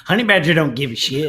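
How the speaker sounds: loud mock-tough meme yell; meme shout. Honey badger meme shouted.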